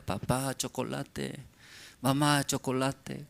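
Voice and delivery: softly voiced child's plea, a little sing-song; begging child. Child asking parents for chocolate, soft mock pleading. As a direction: lightly imitate a child asking repeatedly. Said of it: "Como su niño pide".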